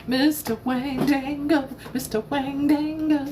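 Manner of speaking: put-on high, playful Southern accent. Streamer teasing the hunky card man, Southern voice. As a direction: tease the name out in a Southern lilt. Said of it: "why am I hearing it in that voice?".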